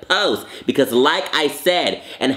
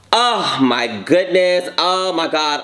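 overwhelmed; 4 semitones higher, slower than usual. Real, not acted. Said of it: "I am so overwhelmed".

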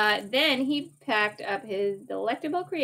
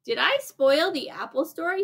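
a higher, louder anxious blurt; 6 semitones higher, 4 dB louder than usual. Acted. William rushes back and blurts his worry to Judy. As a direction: let it burst out in a worry. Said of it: "he blurted out".

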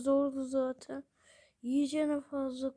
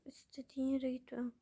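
whisper; 6 dB quieter, faster than usual. Real, not acted. Whispered line.

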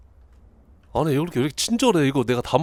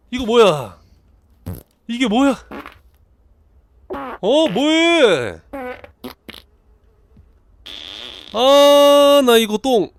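high, loud, dragged-out wail; panicked yelling; 9 semitones higher, 6 dB louder, much slower than usual. Pretend. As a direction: cry out in mounting dismay. Panics as toilet disaster unfolds.

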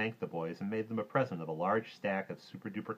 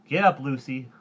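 loud, raised giddy-up call; high, urgent boyish command; calling to a horse; 6 semitones higher, 11 dB louder than usual. Acted. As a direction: urge the horse on. Boy urges horse on.

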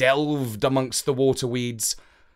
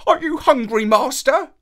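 very high, louder puzzled chirp; a curious little dog asking; 12 semitones higher, 6 dB louder than usual. A narrator's reading. Little dog asking his master, high and loud.

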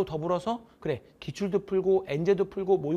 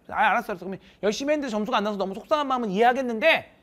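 excited encouragement; 3 semitones higher, 6 dB louder than usual. Retold or imitated. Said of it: "나름 열심히 했대".

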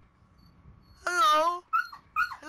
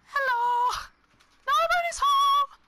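high, slow, louder sing-song call; 14 semitones higher, 5 dB louder, much slower than usual. Pretend. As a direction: call it out playfully into the house. Calling out again, louder.

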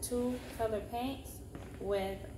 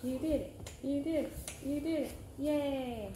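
cheering praise; 5 semitones higher than usual. Real, not acted. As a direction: cheer the little one on. Praising a child's finished flag.

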